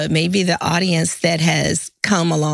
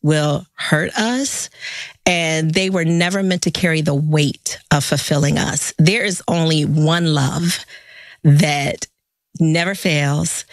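scripted opener; 3 semitones lower than usual. Acted. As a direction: lay each phrase down deliberately. Host reads scripted show opener.

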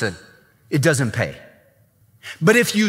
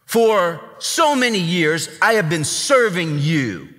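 disrespectful son. Retold or imitated. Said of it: "This guy just says".

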